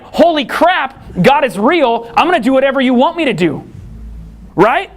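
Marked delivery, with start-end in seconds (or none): 0.0-3.6 high, fast, thrilled rush of words; excited awe. Retold or imitated. A person realizing God is real, thrilled and fast. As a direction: blurt it out, amazed that God is real. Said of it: "you'd be like".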